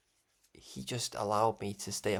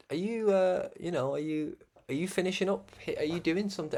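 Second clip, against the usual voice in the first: eager questions; 6 semitones higher than usual. Retold or imitated. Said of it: "I said".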